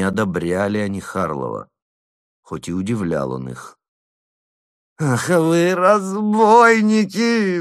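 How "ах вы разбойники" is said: high, loud, slow wail; wailing groan. A narrator's reading. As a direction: moan it out in despair. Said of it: "застонал Слёткин".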